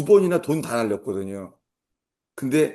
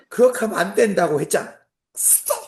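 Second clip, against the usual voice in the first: scolding; 7 semitones higher than usual. Retold or imitated. Scolding wife during driving lesson.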